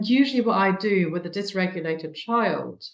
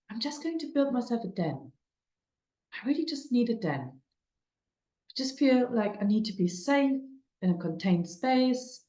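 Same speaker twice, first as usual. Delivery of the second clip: calm; 6 semitones higher than usual. Retold or imitated. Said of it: "really calmly say".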